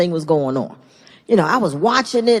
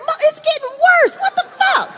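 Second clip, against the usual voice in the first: exasperated. Retold or imitated. Father dismayed by new nickname.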